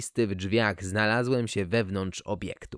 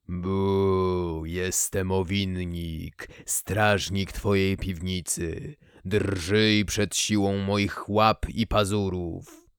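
low, slow, mechanical spooky voice; lightly voiced synthetic ghost; old speech synthesizer; 3 semitones lower, much slower than usual. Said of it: "włączyłem syntezator mowy".

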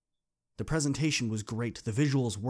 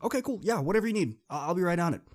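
much higher, breezy yes-voice; airy agreeable girl; 8 semitones higher, 4 dB louder, faster than usual. Retold or imitated. Kayla agreeing to Dean's plan, high and breezy. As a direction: agree to anything without caring. Kayla going along indifferently.

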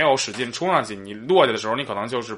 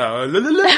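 motorbike imitation; 4 semitones higher than usual. Shown as a demonstration. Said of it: "完全模仿那个摩托车".

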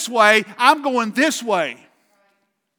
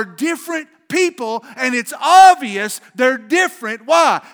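preaching shout; 2 semitones higher, 4 dB louder than usual. Real, not acted. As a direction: lift it into a full pulpit shout. Preacher builds to a climax.

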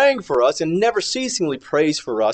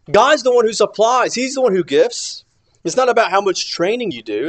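higher, louder declaration; emphatic proclamation; 6 semitones higher, 5 dB louder than usual. Acted. Preacher declaring God as the giver, loud and high. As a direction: proclaim it with full force.

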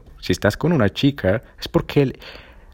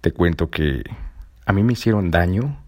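ordinary delivery

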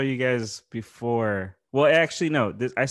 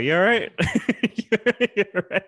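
raised, bright mock concern; mock British check-in; 8 semitones higher, 3 dB louder, faster than usual. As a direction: imitate a bloke checking on a mate. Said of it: "this dude just tapping his back like".

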